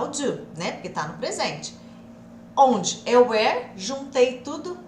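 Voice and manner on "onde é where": "where" drawn out, louder with a rise; stress on where. Shown as a demonstration. Teacher stressing the new word for students. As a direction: lean on "where" slowly. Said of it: "teaching where".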